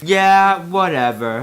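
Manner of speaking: loud yeah, then whispered whatever; scoffing whisper. Acted. Evil Yoda scoffing at Obi-Wan, half whispered. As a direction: brush him off under the breath. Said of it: "I thought".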